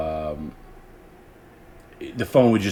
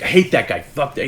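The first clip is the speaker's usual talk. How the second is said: higher, louder mock outburst; infuriated Howard; 6 semitones higher, 5 dB louder than usual. Retelling the host's reaction to the prank caller, infuriated. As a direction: act out a radio host losing his temper. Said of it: "Howard would get infuriated by it".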